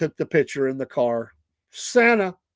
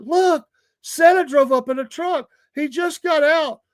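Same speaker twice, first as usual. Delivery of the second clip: high, imitated children's amazement; pitched-up mock kid excitement; excited kids; 11 semitones higher, 4 dB louder than usual. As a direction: mimic kids announcing a big sighting. Retold kids spotting Santa.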